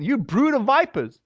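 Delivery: hard, rebuking rebuke of "You brood of vipers"; a touch of anger, spat at the crowd; mad. Retold or imitated. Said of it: "I'm sure he was mad at them".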